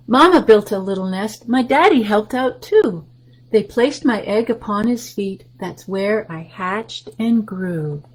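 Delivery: lively picture-book read-aloud; reading to children. Acted. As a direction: read the rhyme to the little ones.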